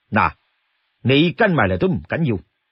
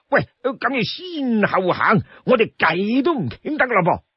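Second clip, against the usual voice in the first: wheedling brute; 4 semitones higher than usual. Acted. The brute protests he only wanted to chat, wheedling and higher. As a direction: coax your companion, whining higher.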